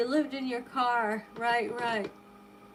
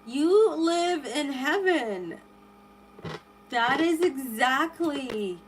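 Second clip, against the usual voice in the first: slow awe; slower than usual. Real, not acted. Awed by the island photos.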